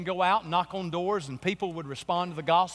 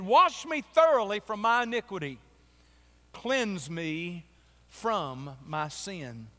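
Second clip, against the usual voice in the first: scripture reading; slower than usual. Acted. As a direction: pray the psalm line down to a hush. Quotes Psalm fifty-one.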